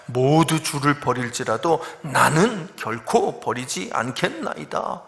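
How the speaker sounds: slow, emphatic retold pledge; measured, insistent boast; self-assertive vow. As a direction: imitate an overconfident disciple swearing loyalty. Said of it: "맨날 나는, 내가 뭐 이런 소리만".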